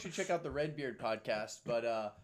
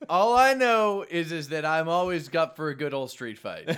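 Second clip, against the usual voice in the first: laughing tough guy; 3 semitones higher, 7 dB louder than usual. Acted. Tough guy bravado joke.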